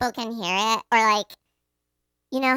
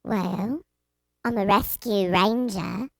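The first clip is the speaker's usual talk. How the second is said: lower, mock British accent; British chipmunk; 5 semitones lower, 4 dB quieter, slower than usual. Answering the chipmunk jibe in a mock British accent. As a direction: play a cartoon ranger with a British accent. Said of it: "You sound like a British chipmunk".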